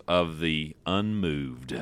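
low, slow dramatic trailer read; movie trailer voice. Acted. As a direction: drag it out like a movie promo. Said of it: "why'd you say it like you're reading a, a movie, uh, trailer or something".

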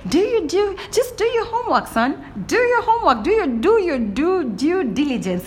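high, pointed scolding lilt; high mock-teacher voice telling a man to do his homework; mocking lecture. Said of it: "Again, I said".

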